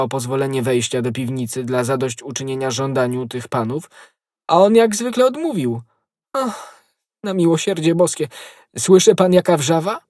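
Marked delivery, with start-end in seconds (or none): 4.5-10.0 high, agitated lament; alarmed. A narrator's reading. Innkeeper complains of the cellar uproar, alarmed. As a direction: wail mildly, voice pitched up.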